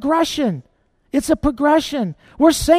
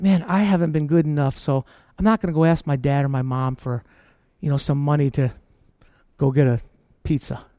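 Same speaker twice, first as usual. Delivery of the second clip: put-on timid child voice; 7 semitones lower, faster than usual. Child afraid to ask parents.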